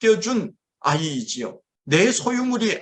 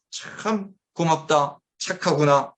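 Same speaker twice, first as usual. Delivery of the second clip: slow, tender thanks; gentle praise; slower than usual. Retold or imitated. God praising a faithful worshipper, slow and tender. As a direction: linger kindly on each word. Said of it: "그러면서 하나님께서 우리를 칭찬해 주실".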